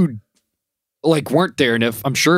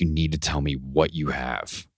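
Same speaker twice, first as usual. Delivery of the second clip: hushed urging; 7 semitones lower, 8 dB quieter than usual. Retold or imitated. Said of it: "He's like".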